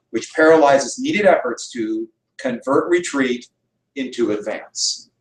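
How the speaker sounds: slow, measured oratory; speech reading. Acted. Teacher reading Roosevelt's inaugural lines to a class, slow oratory. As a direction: read it out deliberately, phrase by phrase.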